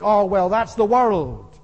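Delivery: imitating a jaded Christian; dismissive shrug. Preacher mocking how Christians talk about the world, dismissive. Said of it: "That's the way we speak".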